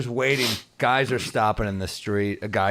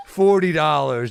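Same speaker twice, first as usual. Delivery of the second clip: firm loud offer; 4 semitones higher, 6 dB louder than usual. Retold or imitated. Haggling in retold fight.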